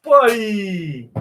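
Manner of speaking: calling out to the dog. Real, not acted. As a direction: shout his name to bring him.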